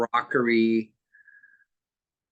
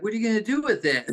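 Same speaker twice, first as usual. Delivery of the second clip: lightly voiced puzzled kid, higher and quick; quick, higher-pitched question, retold as a small child; curious kid; 7 semitones higher, much faster than usual. Kid asking grandma about the car, lightly voiced curiosity. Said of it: "And I was like".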